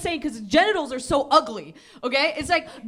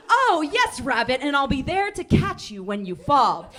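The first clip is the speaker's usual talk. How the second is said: sly snake voice; slower than usual. Acted. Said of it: "with a little smile and goes".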